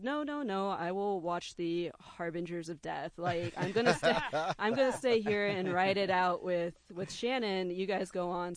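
laughing, loud protest; laughing insistence. Retold or imitated.

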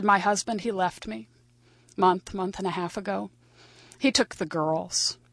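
subdued, halting confession; gone numb. Retold or imitated. Woman tells old boyfriend her husband left, numb and halting. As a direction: report it numbly, pausing between pieces. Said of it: "as if she had gone numb".

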